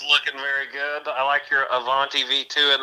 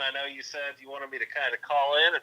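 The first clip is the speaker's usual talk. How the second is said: phone speaker; 8 dB louder than usual. Real, not acted. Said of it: "I got the phone next to the, uh, the microphone".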